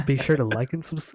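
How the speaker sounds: loud hyped YouTube outro; YouTuber voice. Retold or imitated. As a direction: sell it like a vlogger signing off. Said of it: "Sound like a commentator".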